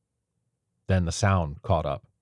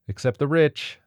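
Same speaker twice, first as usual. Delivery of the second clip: a bit higher, pointed; pointed correction; 8 semitones higher, 4 dB louder than usual. A narrator's reading. Martha cutting in to correct the others, pointed. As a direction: correct him with a sharp edge. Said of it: "said Martha".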